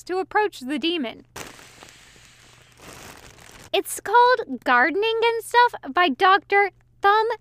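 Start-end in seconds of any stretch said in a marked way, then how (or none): 3.7-7.3 giggling. A narrator's reading. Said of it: "Crowley said with a giggle".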